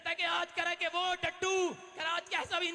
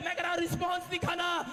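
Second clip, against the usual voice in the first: fiery preaching; 2 semitones higher than usual. Acted. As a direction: rouse the church to shout back amen. Preacher rousing congregation.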